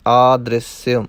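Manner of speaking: ਆਦ੍ਰਿਸਯ with short i after the r, "aa-dris-si-a". Shown as a demonstration. Teacher demonstrates ਆਦ੍ਰਿਸਯ, short i on the r. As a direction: keep d and r together in ਆਦ੍ਰਿਸਯ. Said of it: "ਰਾਰੇ ਨੂੰ ਸਿਹਾਰੀ ਲਾਉਣੀ ਹੈ".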